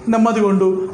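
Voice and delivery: the mild hint of God consoling a weeper; comforting. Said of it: "అని ఆదరిస్తాడా".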